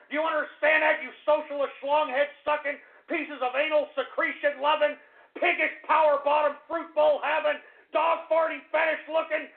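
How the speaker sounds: hammed-up escalating insult rant; a comic tirade of insults at the chat; ranting insult string. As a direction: spit the insults out one after another.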